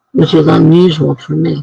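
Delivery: talking through a yawn. Real, not acted. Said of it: "I'm yawning".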